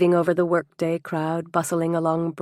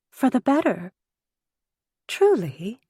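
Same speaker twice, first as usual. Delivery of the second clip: higher-pitched, sighing contentment; contented sigh; 6 semitones higher than usual. A narrator's reading. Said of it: "Angelica sighed with apparent contentment".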